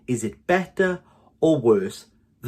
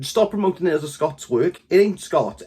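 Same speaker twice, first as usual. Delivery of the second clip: exasperated; 5 semitones higher than usual. Real, not acted. Ranting about the Scots label.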